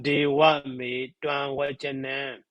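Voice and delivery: slow, measured reading of dewa me tuan wajanan; deliberate verse recitation. Shown as a demonstration. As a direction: say the Pali line slowly for counting. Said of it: "So eight syllable".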